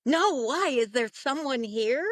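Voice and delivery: retold eager question, pitch jumping up; excited. Doctor asks whether a spirit is here, excited. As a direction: ask it with acted excitement. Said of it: "He got all excited".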